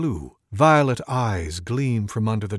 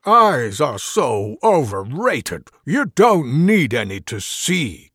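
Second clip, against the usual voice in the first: odd rogue voice; 2 semitones higher, 7 dB louder, slower than usual. Acted.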